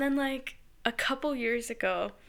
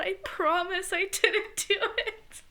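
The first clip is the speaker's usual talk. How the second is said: pleading mom; 6 semitones higher than usual. Retold or imitated. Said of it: "my mom's like".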